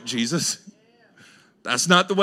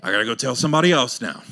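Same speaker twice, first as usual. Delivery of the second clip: deflated inner voice; 5 semitones lower, faster than usual. Retold or imitated. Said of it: "it's like".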